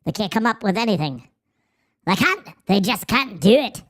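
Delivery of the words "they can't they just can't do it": high-pitched mock Irish accent; Irish little person. Streamer redoing the accent on request, mock Irish little person. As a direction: put on a small, high Irish voice. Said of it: "like an Irish little person".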